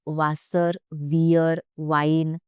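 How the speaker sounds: WASSER, WEHR, WEIN each begun with a V sound. Shown as a demonstration. Teacher listing German examples, W as V. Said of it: "W sounds like V".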